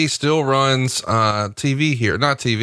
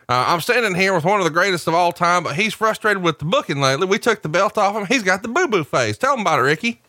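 higher, hyped backstage interviewer voice; wrestling interviewer; 6 semitones higher than usual. Acted. Podcaster voicing backstage wrestling interviewer, hammed-up announcer. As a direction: play the announcer throwing to himself.

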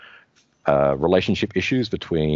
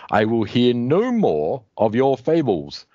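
Grimbor villain; 4 semitones higher than usual. Acted. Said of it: "says Grimbor".

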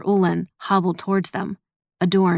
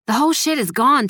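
agitated; 6 semitones higher than usual. Acted. Agitated bad news.

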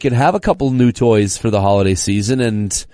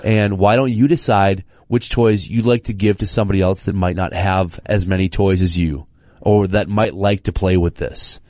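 coaxing parent; 3 semitones lower than usual. Retold or imitated. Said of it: "we try the".

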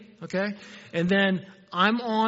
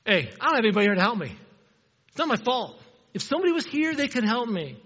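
whiny excuse; 3 semitones higher, faster than usual. Retold or imitated. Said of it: "that's where he goes".

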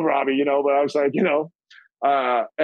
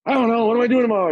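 much higher, baffled echo; puzzled self; 8 semitones higher, faster than usual. Retold or imitated. Answering Frankie's call, high puzzled echo. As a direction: play it dumb. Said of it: "I'm going".

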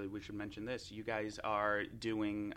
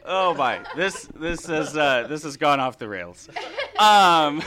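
being tickled; 5 semitones higher, 17 dB louder than usual. Real, not acted. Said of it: "Here comes the tickle monster".

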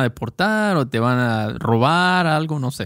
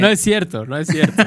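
laughing disbelief; 3 semitones higher than usual. Real, not acted. Teasing friend about hair.

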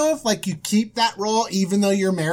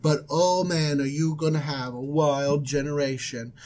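lightly voiced low angel; 5 semitones lower than usual. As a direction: ease back into the angel prophecy, low. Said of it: "I need to come up with an angel voice".

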